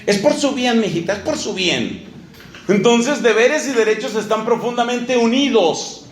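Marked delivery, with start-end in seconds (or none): 0.1-2.1 insisting parent. Acted. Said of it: "lo que nos han dicho los papás".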